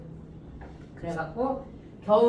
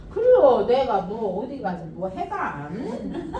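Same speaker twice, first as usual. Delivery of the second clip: imitated grandma; 4 dB louder than usual. Voices grandmother's reply.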